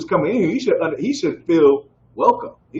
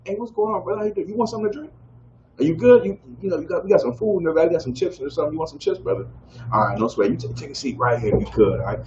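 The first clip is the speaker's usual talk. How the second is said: softer, higher, friendly host voice; welcoming greeting; 3 semitones higher, 4 dB quieter, faster than usual. Retold or imitated. Teacher shows how to greet a new brother, softly welcoming. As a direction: make the new brother feel at home. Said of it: "how should you be to a brother".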